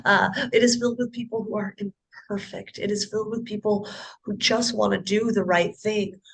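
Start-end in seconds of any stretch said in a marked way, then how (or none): 0.0-5.0 real tears catching in the voice; fighting back crying as you correct yourself; choked up, restating it kindly through tears; voice breaking. Real, not acted. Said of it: "I shouldn't say rotten".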